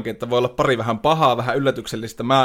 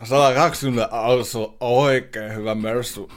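lightly voiced Russian accent, a Vesku Loiri car salesman; hint of a Russian accent while selling a Mercedes; 3 semitones lower than usual. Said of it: "tämmönen joku venäläisaksentti tälle Veskulle".

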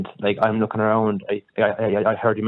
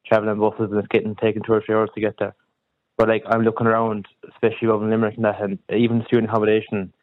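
Kerry accent. Real, not acted. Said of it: "I'm from Kerry".

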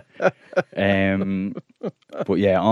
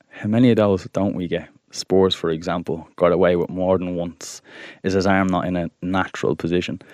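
calm TikTok voice; 4 semitones lower than usual. Acted. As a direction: read it like a soothing TikTok. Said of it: "I'll read it in my, uh, ca-, very calm TikTok voice".

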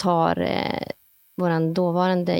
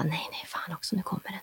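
barely voiced, much softer panicked whisper; tense whisper; 12 dB quieter than usual. Hunter whispering to herself as rustling comes closer. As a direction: hiss it almost silently, bracing. Hearing the elk approach.

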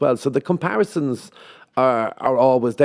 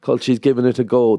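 mock condescension. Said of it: "kinda looked down on".

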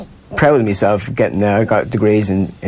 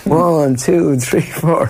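crowd counting; 7 semitones higher, much slower than usual. Retold or imitated. Crowd counting keg stand.

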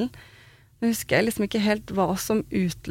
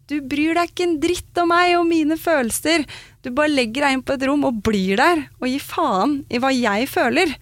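re-enacting an angry, tearful rant, higher pitched; gjenfortalt sint skriking; 5 semitones higher than usual. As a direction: pour out accusations at a partner, raised pitch without full shouting. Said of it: "og bare skriker til han". (etterlignet sint utskjelling i høyt toneleie)

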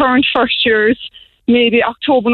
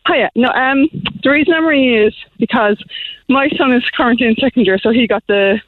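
slightly winded, breathing hard between words; out of breath from walking. Real, not acted. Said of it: "I'm out of breath".

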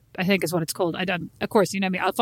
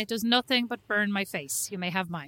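deadpan; 7 dB quieter than usual. Real, not acted. Deadpan dismissing the moisturiser.

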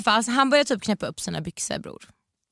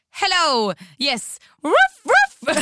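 high, loud mock barking; high playful ruff ruff; playful dog bark; 9 semitones higher, 5 dB louder, much slower than usual. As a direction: bark it out like a puppy. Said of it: "och jag bara".

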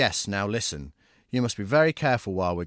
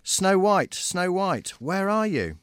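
calling out; 8 semitones higher, slower than usual. Acted. Dwarfs searching for her.

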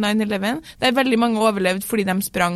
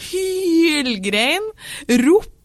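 shouting; 5 semitones higher, much slower than usual. Retold or imitated. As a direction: scream it out in panic. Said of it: "Og da mener jeg klikka".

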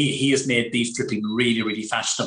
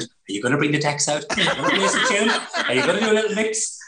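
eager guests; 2 semitones higher, faster than usual. Retold or imitated. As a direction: rattle off the guests' eager requests, giggling. Guests pestering him at the restaurant.

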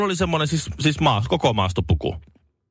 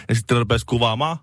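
usual speaking voice

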